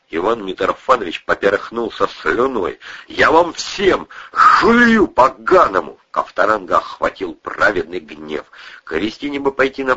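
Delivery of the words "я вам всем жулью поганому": slow furious threat. A narrator's reading. Праведный гнев Ковторанга.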